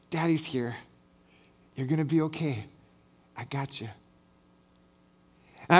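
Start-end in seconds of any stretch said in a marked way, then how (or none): 0.1-3.9 put-on soft, hushed comfort, as if into a child's ear; retold soothing whisper. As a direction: imitate a parent softly calming a scared daughter. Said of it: "I whisper in her ears".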